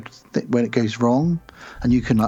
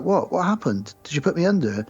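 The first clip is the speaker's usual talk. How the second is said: confused surprise; 5 semitones higher than usual. Retold or imitated. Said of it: "he's like".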